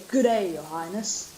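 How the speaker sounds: put-on light Australian accent; a hint of an Australian advisor. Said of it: "like an Australian".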